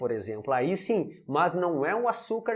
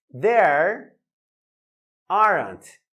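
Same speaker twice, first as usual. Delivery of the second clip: "There" and "aren't" hit loud, split by a pause; stress on there aren't; 6 dB louder, much slower than usual. Shown as a demonstration. Teacher pointing out the plural verb to the class, loud and stressed. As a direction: punch "There" then "aren't" apart. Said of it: "olha só".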